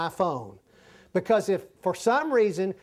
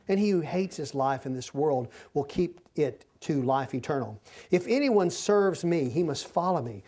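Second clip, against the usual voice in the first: scripture reading; 2 semitones lower than usual. Acted. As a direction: read the verses out to the congregation. Preacher reads scripture aloud.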